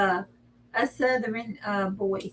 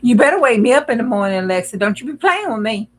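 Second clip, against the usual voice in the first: loud bossy warning; 7 dB louder than usual. Real, not acted. Scolding Alexa about the alarm.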